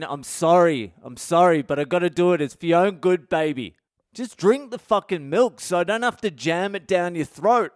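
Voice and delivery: half-apologising, half-begging her to drink; pleading dad. Retold or imitated. Dad pleading with crying baby.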